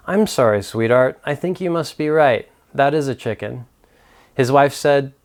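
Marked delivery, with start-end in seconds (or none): 0.1-3.6 gentle apology. Acted. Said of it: "as he gently said".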